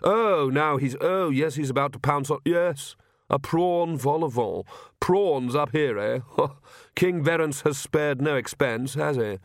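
lightly voiced amused gentleman. Vlad watching the priest at the food, lightly amused. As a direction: commentate with a touch of relish.

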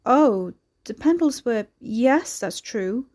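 a hint of a broad old rural accent; broader old local accent. A narrator's reading. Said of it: "her accent slipping into a broader, older form".

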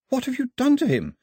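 high, alarmed shout. A narrator's reading. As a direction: shout it as you run to him. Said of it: "she shouted as she ran".

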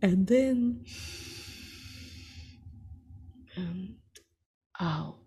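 measured, unhurried meditation guide with long pauses for breath; guided meditation. Real, not acted. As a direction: lead listeners steadily through each breath and image.

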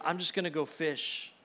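resigned. Acted. Overwhelmed Peter can only fish.

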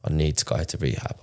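hushed, breaking whisper of a plea; barely voiced, begging for help; retold tearful plea. Begging his boss for rehab, hushed and tearful. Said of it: "cried my eyes out to him".

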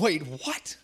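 chuckling through the line; laughing wait what. Shown as a demonstration. Preacher joining the crowd's retry, laughing. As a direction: laugh it out, half-hearted anger. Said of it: "more anger in your voice".

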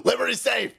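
slow, drawn-out parody ad voice; hammed-up sponsor read; mock promo read. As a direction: sell it like a cheesy commercial. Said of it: "I should do a promo read".

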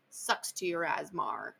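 lightly mimicked British accent on "asthma", ending "-mar"; slow mock of a British accent, "asthma" as "az-mar"; mocking Piggy's accent. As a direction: tease in a slight put-on British accent. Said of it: "makes fun of him in his accent".

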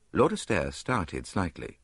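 plain reading voice

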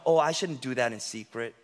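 soft then whispered; inner temptation whisper. Acted. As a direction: breathe the want at the end. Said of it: "You know".

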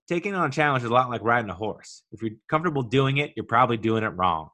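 light Kansas City Midwestern twang, folksy coach; imitating Ted in a mild Kansas City Midwestern accent. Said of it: "He's got kind of a Kansas City Midwestern twang".

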